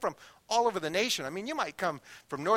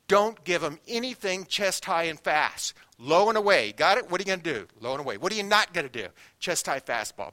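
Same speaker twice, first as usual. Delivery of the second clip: urgent catcher instructions; 4 dB louder than usual. Retold or imitated. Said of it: "and he says".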